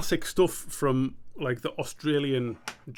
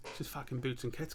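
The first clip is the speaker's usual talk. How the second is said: quiet, shaky stab at Australian; attempted Australian accent; 10 dB quieter than usual. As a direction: try Australian under your breath, not very well. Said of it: "a very good Australian accent".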